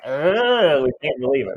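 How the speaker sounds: a high, loud "ugh" of disbelief; mock shocked groan. Family hearing grandma's torrid affair, a loud scandalized groan. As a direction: groan like the whole room is scandalized. Room reacting to sex story.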